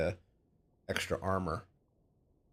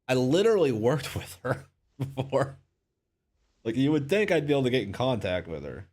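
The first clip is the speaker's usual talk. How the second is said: exasperated; 7 semitones higher, 8 dB louder than usual. Real, not acted. Frustrated at forgetting quest.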